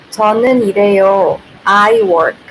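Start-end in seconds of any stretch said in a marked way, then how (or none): 0.1-1.4 rattled-off Korean example, fast; quick demo reading. Shown as a demonstration. Teacher reading a sample sentence to viewers, fast. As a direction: read it off quickly as a model sentence. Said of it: "so like this. "은는".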